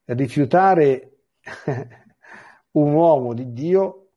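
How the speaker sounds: slow, laughing in disbelief; incredulous laugh. Real, not acted. Priest marvelling that people refuse a blessing, laughing. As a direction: laugh it out, amazed anyone refused.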